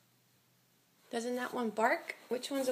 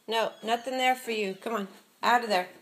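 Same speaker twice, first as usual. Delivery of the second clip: firm loud scolding; 7 dB louder than usual. Real, not acted. Parent ordering toddler out of bathroom.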